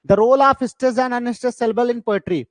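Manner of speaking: very slow, each word spaced out; slow heading read. Shown as a demonstration. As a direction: read the title out slowly for the class. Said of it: "reads lesson heading slowly". (शीर्षक धीरे-धीरे पढ़ना)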